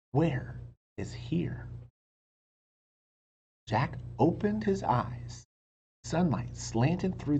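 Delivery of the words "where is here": slow whispered chapter title. A narrator's reading. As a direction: hush it like a mystery. Chapter title read hushed.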